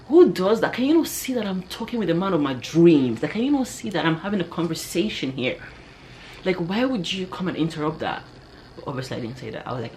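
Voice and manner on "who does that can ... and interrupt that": mock telling-off, acted out for the listeners; pissed off. Woman inwardly scolding the man who interrupted her crush, pissed off. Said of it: "I was pissed".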